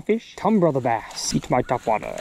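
ordinary talk, nothing marked

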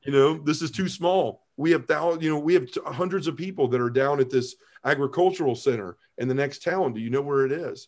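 a hint of a kindly sister explaining; matter-of-fact nun. Nun answers him, voiced.

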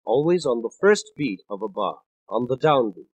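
"first" and "downbeat" pressed down hard; stress on first beat. Shown as a demonstration. Explaining the downbeat to listeners, weight on "first". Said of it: "where do we expect accents".

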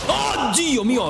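high slow oddio; drawn-out dismay. Real, not acted. Gamer stepping on a trap, high drawn-out dismay. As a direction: groan as the trap goes off.

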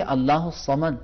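"الصمد" with a thick, heavy ص; correct heavy sad. Shown as a demonstration. Teacher showing students the correct Samad. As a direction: say "الصمد" with the ص made full and heavy. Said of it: "تو ہم کیا کہیں گے".

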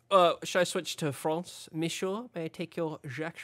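put-on joking French accent; mock French accent. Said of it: "saying in a French accent".

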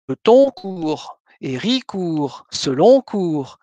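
slow, with stress on the next-to-last syllable of "Betoncourt", "Héricourt", "Seloncourt"; Franche-Comté stress. Shown as a demonstration. Lecturer demonstrating the local accent on town names, slow and deliberate. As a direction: lean on the second-to-last syllable of each town name, slowly. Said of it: "un accent qui frappe non pas la dernière ... mais l'avant-dernière".

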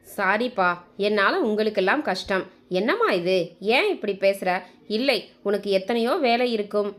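measured storytelling with lightly voiced dialogue; story narration. A narrator's reading. Narrator telling listeners of a hurt mother and her children, storytelling voice. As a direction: read it out as a heartfelt family tale. Reads a family story aloud.

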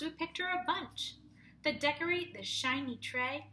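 gentle singsong picture-book reading; cosy rhyming read-aloud for a class; reading to children. Acted. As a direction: read it like story time for little kids.

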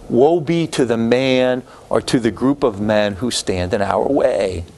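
slow, measured proclamation; lightly voiced solemn Wilson quote. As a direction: read it out slowly like a grave decree. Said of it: "Wilson said".

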